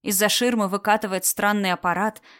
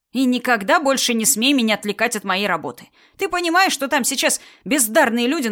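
angry scolding; 4 semitones higher, 3 dB louder than usual. Acted. Doctor scolds the clan head.

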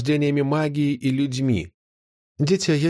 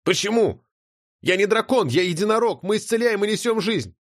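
put-on higher girl's voice, stunned and disbelieving; stunned young girl; 8 semitones higher than usual. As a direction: she can't believe her eyes. Notti protesting.

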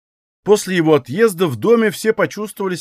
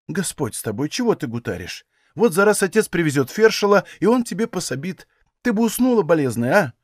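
put-on old woman comforting the sick daughter-in-law; tender reassurance; 3 semitones higher than usual. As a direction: ease her fears kindly.

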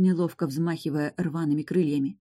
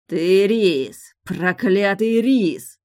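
rasping, dragged-out dying hiss; hoarse rasp; 3 semitones higher, 6 dB louder, much slower than usual. A narrator's reading. Dying bastard rasps at his enemy, hoarse. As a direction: force it out hoarse and slow, weakening. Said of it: "прохрипел синеволосый".

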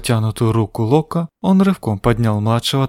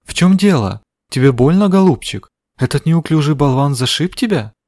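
worried; 4 semitones higher than usual. Acted. Worried woman comforts crying boy.

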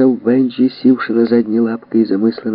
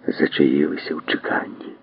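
plain reading voice

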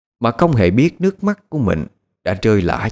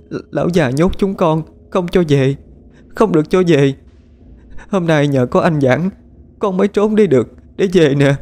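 put-on high, plaintive little girl's voice; sobbing drowned child; 7 semitones higher than usual. A narrator's reading. Drowned child begs her father, high and tearful. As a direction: call to her father like a lost, cold child. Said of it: "rồi khóc nức nở, miệng lắp ba lắp bắp".

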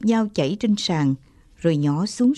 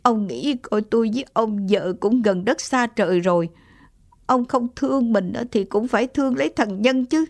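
hesitant; 3 semitones higher than usual. Acted. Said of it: "Giọng bà lão có chút ngập ngừng".

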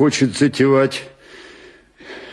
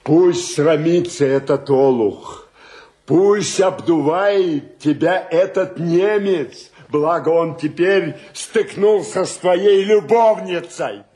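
defiant tirade, rising as it goes; defiant yelling; 3 semitones higher than usual. Acted. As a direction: keep ranting despite the hushing. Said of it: "Буду кричать". (вызывающе, нарочито крикливо)

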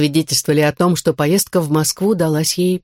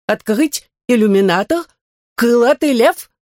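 higher startled robot voice; jumpy android, higher pitched; 6 semitones higher than usual. A narrator's reading.

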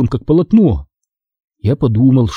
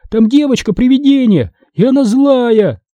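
high, urgent exclamation; narrated yell; 10 semitones higher than usual. A narrator's reading. Boy warns parents of ghost girl, mildly yelling. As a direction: cry out a warning, volume restrained. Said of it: "заорал я во всю мощь лёгких".

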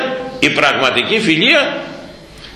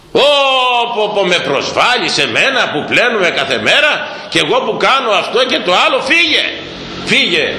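mock offended outburst; 4 semitones higher than usual. Offended gossiper rebuffs honest friend.

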